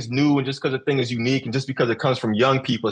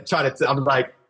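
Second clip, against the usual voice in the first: ordinary talk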